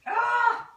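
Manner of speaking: short, high cry of dismay; real startled ah; startled yelp. Real, not acted. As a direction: yelp as the blender dies again. Blender fails again.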